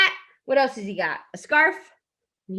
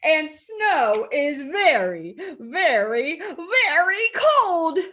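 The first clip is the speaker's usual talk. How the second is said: slow "very, very, very", climbing on the last; building emphasis; slower than usual. A narrator's reading. Reading Kitty's complaint to children, slow building stress on "very". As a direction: stretch each "very" and lift the final "very cold". Emphatic repetition in picture book.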